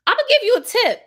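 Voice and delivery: high and loud, setting him straight; emphatic. Retold or imitated. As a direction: state it loud and firm. Firm talk to the driver.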